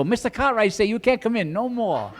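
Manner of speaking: lightly voiced Hop Sing with an Asian accent; Asian accent impression. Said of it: "That's my Asian impression".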